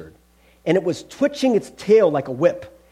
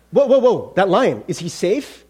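mock alarm; 3 semitones higher, 4 dB louder than usual. Someone seeing Aslan the lion, mock alarmed. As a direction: pull up short as if startled.

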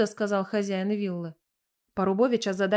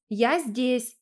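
calling out again; 2 semitones higher than usual. A narrator's reading. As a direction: answer the call from the bathroom. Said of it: "крикнула Инесс".

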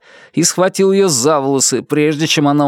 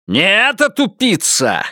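higher, snapping; barked insult; 7 semitones higher than usual. A narrator's reading. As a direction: bark the insult at her. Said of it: "рявкнул он".

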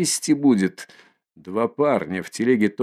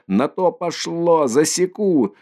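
furious threat; 7 semitones higher than usual. Acted. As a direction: spit out the threat, raised high. Mikolka threatens the mare.

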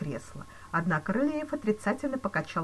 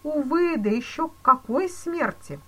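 higher, louder mournful exclamation; exclaimed; 10 semitones higher, 8 dB louder than usual. A narrator's reading. Police chief pitying the banker, exclaiming. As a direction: exclaim it with pity. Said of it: "воскликнул полицмейстер".

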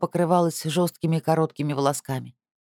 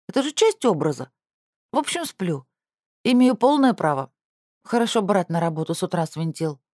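grumpy sister voice; 4 semitones higher than usual. Acted.

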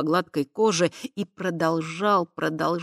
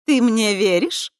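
femme fatale; 10 semitones higher, 7 dB louder than usual. A narrator's reading. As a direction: lure him in, sweetly. Krista seducing.

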